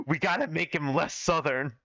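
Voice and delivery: laughing. Real, not acted.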